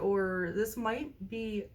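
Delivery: speaking through hiccups; hiccuping mid-sentence. Real, not acted. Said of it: "I have the hiccups".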